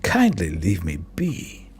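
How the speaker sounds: lightly voiced haughty householder; dismissive, dropping low at the end. Householder ending the interview with detective, mildly haughty dismissal.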